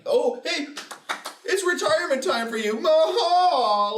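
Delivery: high, cheery mock gloat ending in a cackle; hammed-up high taunting villain. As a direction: gloat sing-song like a cartoon villain. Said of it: "And then, like".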